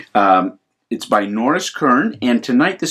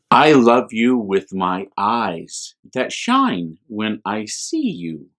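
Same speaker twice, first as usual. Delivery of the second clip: tender and slow; slower than usual. Acted. Mother bear tells her cub how she loves him, tenderly. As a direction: linger on each word like a lullaby.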